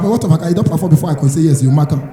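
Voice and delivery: ordinary delivery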